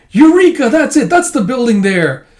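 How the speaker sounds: high, loud eureka cry; excited old man. Retold or imitated. Old man remembers his shopping errand, high excited cry. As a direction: burst out with discovery.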